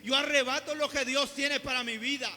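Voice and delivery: loud, determined claim; bold declaration. Retold or imitated. Preacher urges the church to declare, loud and bold. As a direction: seize it, forceful and loud. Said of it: "de levantarnos y decir".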